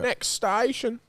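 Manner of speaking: the same line said quietly, almost to himself. Retold or imitated. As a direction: drop it to a murmur.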